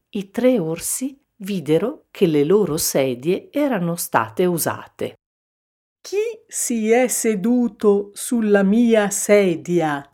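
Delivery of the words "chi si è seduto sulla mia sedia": raised, put-on indignant bear voice; papa bear demanding. A narrator's reading. Papa bear finding his chair used, demanding. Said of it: "chiese papà orso".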